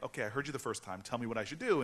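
retold reply with mild impatience; mildly impatient retort. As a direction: press lightly for the answer. Retold first, milder impatient reply.

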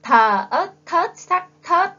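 put-on sing-song model spelling of "Thờ ớt thớt sắc thớt" for little kids; slow spelling out. Shown as a demonstration. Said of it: "Các bạn đánh vần tiếng thớt nào".

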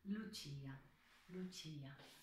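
ルチア with the tongue tip lightly touching the upper teeth; tender, gentle ルチア; soft L. Shown as a demonstration. Teacher modelling ルチア for singers, gentle. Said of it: "舌の先をちょっと上の歯に当てる".

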